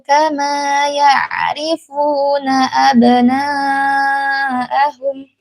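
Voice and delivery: slow, melodic Quran chanting; Quran recitation. Acted. Teacher reciting the verse for the mothers to follow, slow and melodic.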